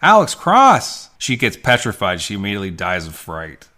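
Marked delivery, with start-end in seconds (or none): 0.0-1.1 much higher, louder, slow name drop; booming dramatic announce. Retold or imitated. Telling the podcast co-host the reveal, booming trailer voice. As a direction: boom it out like a movie trailer.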